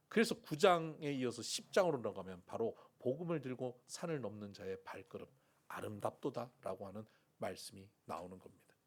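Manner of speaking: normal talking voice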